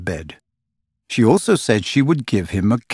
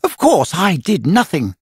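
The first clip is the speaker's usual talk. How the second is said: higher, biting mock modesty; sarcastic; 8 semitones higher than usual. A narrator's reading. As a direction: lay the sarcasm on thick. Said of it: "with frightful sarcasm".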